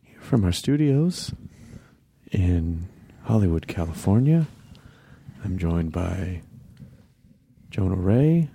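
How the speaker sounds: mock public-radio host, measured with long pauses; public radio parody. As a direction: introduce the show like an earnest radio host.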